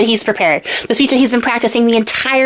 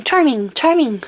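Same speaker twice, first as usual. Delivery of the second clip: slow, drawn-out call of a hidden voice; calling voice from the water; 4 semitones higher, slower than usual. Acted. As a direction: call his name from somewhere unseen. Mysterious voice calls from water.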